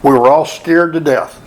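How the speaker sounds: measured, sincere read-aloud; tribute letter reading. Real, not acted. Reading an absent friend's letter at Dave's celebration, sincere read-aloud.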